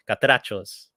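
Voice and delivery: "Catrachos" with a Spanish accent, R put in; corrected Spanish pronunciation of "Catrachos". Shown as a demonstration. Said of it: "say it with my Spanish voice".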